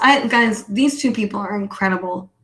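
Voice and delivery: normal talking voice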